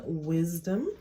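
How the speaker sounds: ordinary talk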